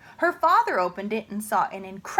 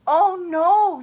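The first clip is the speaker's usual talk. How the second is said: alarmed; 8 semitones higher, 8 dB louder than usual. Acted. Michael alarmed.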